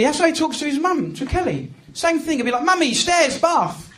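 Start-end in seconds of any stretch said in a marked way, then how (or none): 2.6-3.9 lightly imitated toddler orders; one demand word at a time, like a child. Son ordering his mum upstairs, lightly demanding. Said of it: "that's how he talks to everybody".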